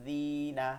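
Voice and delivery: "জিনা" with the zi held for one beat; one-alif stretch. Shown as a demonstration. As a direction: lengthen the i of "জিনা" slightly. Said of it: "এক আলিফ টান হবে". ("জিনা"-র "জি" এক আলিফ টেনে)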